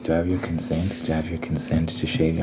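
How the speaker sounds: soft, quiet imitation of an ASMR girl; a mild mock of a soft ASMR voice. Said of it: "they'll do this thing of, like".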